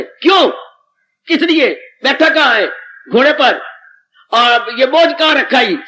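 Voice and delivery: a simple man proving he is right, heated; indignant argument. Acted. Villager angrily argues his logic.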